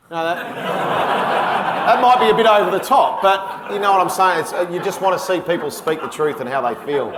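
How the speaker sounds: laughing through the words, loud and high. Real, not acted. Chuckling to the interviewer about how bold that sounded. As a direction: laugh it off while making the point. Laughing while making his point.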